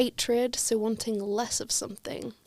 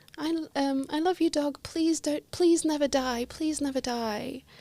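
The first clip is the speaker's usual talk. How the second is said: put-on earnest pleading, lightly called out; 4 semitones higher than usual. Retelling a drunk girl calling to a dog as they leave: imitating someone shouting. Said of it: "the girl turns around and shouts".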